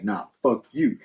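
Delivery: lightly voiced man's retort at ordinary pitch; arguing man. Host voices the man answering her, mildly dismissive. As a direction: answer her back, understated. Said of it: "He's like".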